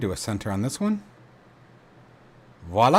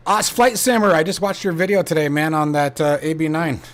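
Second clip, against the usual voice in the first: excited greeting; 4 semitones higher, 3 dB louder than usual. Real, not acted. Greets a viewer in chat.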